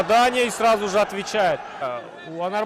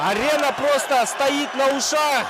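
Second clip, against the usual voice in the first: excited commentator; 4 semitones higher than usual. Real, not acted. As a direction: call it over a roaring crowd. Crowd roaring at the arena.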